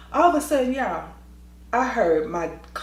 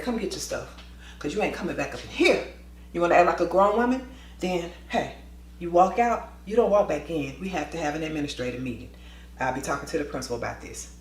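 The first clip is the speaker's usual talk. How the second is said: gently; 3 semitones lower, 4 dB quieter than usual. Retold or imitated. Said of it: "I said it outside gently".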